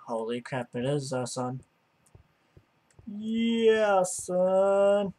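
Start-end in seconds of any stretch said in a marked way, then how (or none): 3.1-5.1 excited shout. Real, not acted. Excited exclamation.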